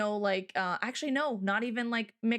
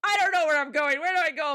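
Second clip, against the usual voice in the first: louder, slightly higher lost plea; a touch of helpless panic; mild pleading; 3 semitones higher, 6 dB louder than usual. Retold or imitated. A lost tourist asking her the way, mildly desperate.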